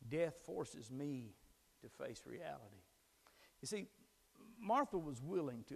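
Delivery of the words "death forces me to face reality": slow emphatic repeat. Shown as a demonstration. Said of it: "repeated slowly for emphasis".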